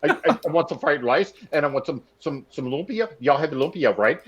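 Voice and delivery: rushed, stammering order over the phone; Scotty Storm ordering Chinese food on the phone, fast and stammering; incoherent food order. Retold or imitated. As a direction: gabble the order fast, tripping over words. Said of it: "he talks about like".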